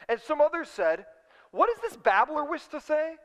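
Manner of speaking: measured, emphatic Bible reading; scripture reading. Acted. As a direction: read it aloud to a congregation, lifting key phrases. Reads scripture aloud to congregation.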